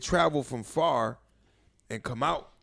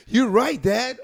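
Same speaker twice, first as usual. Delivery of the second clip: squeaky high question, much louder; mock high voice; 11 semitones higher, 8 dB louder, much slower than usual. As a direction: pipe it up like a nervous kid. Daughter's boyfriend voiced mockingly.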